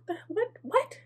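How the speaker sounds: high, baffled double take; stunned disbelief. Retold or imitated. Caught off guard by the caller, a high baffled what. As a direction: squeak out a confused what, what. Her stunned reply to an accusation.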